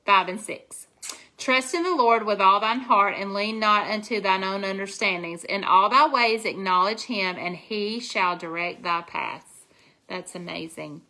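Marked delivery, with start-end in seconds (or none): 1.4-9.7 reciting the verse with reverence, slowing at the end; a touch of solemn recitation; scripture recitation. Acted. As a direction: quote the Bible verse like a prayer.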